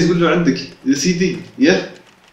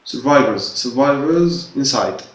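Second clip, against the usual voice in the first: slow reading; much slower than usual. Shown as a demonstration. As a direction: read "survivors inside" very slowly, syllable by syllable. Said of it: "أبيك عيد تقرأ survivors". (قراءة بطيئة لكلمة "survivors" حرفا حرفا)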